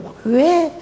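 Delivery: high pitched but held back; suppressed cry of why; held-in shout. Shown as a demonstration. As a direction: strangle the outburst. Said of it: "속에서 목소리를 끌어들여요".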